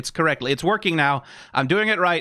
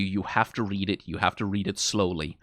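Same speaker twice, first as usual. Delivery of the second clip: softer, lower, sincere insistence; earnest plea; 6 semitones lower, 5 dB quieter than usual. Real, not acted. Streamer promising anime fans the manga is worth it, earnest and hushed. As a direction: drop down soft and low to urge them.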